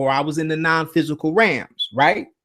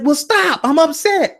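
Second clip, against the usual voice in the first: indignant plea; 10 semitones higher, 3 dB louder than usual. Retold or imitated. Telling Shaq off in dream.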